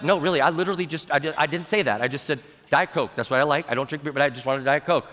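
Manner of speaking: quick, lowering self-defence; mild protest. Retold or imitated. Pastor to an accusing beer drinker, mild protest. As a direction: explain hurriedly, keeping it low-key.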